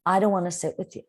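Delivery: even, kind and polite; same words, gently and kindly. Shown as a demonstration. Teacher models the kind way to refuse a friend, polite. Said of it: "you're changing how you say your words".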